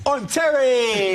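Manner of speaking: high, slow, laughing "I'm Terry"; drawn-out dopey self-introduction; idiot voice. Retold or imitated. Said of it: "do my voice for idiots".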